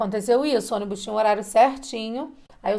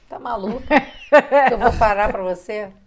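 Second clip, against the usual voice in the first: laughing through the quote; 6 dB louder than usual. Retold or imitated. Retold driver's mocking reply.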